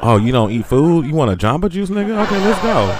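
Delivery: high playful voice of a guy asking her out; lightly voiced flirty guy; mock eager guy. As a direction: play the eager man begging to take her out. Voicing men asking her out.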